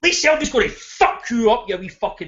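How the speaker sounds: addressing Johnny Nelson with a scornful rant; ranting call-out. Real, not acted. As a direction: tear into him. Calling out a pundit.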